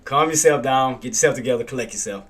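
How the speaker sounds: quiet self-talk. Real, not acted. Trader calming himself after a bad trade, quiet self-talk. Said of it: "get it together".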